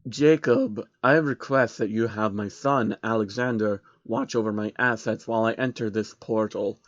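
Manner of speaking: lightly voiced scheming billionaire, hushed; sinister villain. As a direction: command the minion quietly with menace. Villain Soros gives orders.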